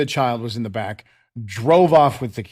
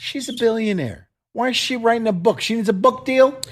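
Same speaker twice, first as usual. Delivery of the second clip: mock disbelief; 8 semitones higher than usual. Real, not acted. Cohost mocking a rich author.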